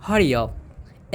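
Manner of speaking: "Hurry up" drawn out slowly and clearly; slow it down so students can copy; slow teaching repeat. Shown as a demonstration. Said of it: "हमें बोलना है जल्दी करो". (धीरे से साफ़ उच्चारण)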